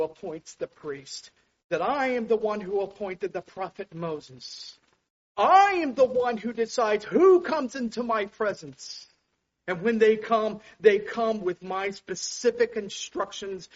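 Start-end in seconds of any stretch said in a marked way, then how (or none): 5.4-13.7 commanding divine voice. Acted. Preacher voicing God's claim.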